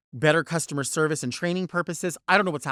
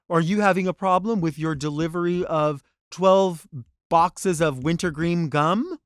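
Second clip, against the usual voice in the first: automated phone menu; 2 semitones higher, 4 dB louder than usual. Retold or imitated. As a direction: parody the phone bot, stretching the end. Mocking automated phone prompt.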